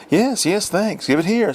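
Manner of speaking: high, hurried mock-polite brush-off; snatch the sample and shut them out; grabby housewife. A narrator's reading. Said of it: "some of them said".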